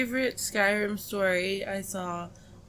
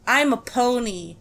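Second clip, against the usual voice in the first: monotone; 2 semitones higher, 4 dB louder than usual. Retold or imitated. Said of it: "monotone voice she could".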